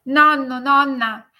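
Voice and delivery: loud, high calls from the sky; shouted farewell. A narrator's reading. Girl rising to the stars shouts goodbye to her family. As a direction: shout the names down from far above. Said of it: "gridò".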